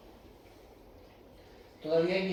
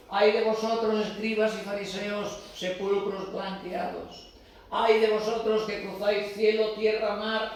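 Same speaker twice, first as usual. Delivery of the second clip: solemn woe; 4 semitones higher, 4 dB louder than usual. Retold or imitated. Voicing Jesus' woes.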